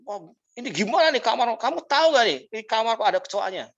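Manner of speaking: a touch of an angry hotel guest; hotel guest angrily complaining about a cockroach, understated; mild mock anger. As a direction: complain like an annoyed husband, lightly acted. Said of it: "marah-marah dia".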